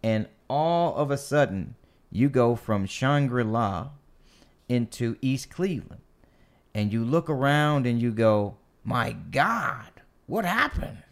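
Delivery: lightly voiced politician quote; white senator voice. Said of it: "that was my white senator voice".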